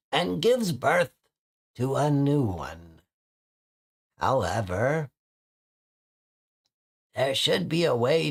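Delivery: slow, lightly voiced elderly bird sage; a hint of an old storyteller creaking through a prophecy; old man voice. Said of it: "that's worse than the old man voice".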